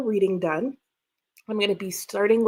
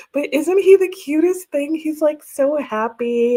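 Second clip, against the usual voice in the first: higher, louder gush over the cute snowman; 5 semitones higher, 3 dB louder than usual. Real, not acted. Showing viewers the snowman, gushing higher and louder. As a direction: really gush about it, bigger this time.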